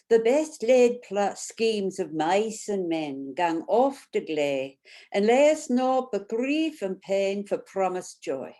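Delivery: reading Burns in a broad Scottish accent; thick Scottish accent. Shown as a demonstration. Facilitator reads a Burns poem to her group, thick Scottish accent. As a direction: roll it out like a Scots reciter. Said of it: "I'll read it out first with a thick Scottish accent".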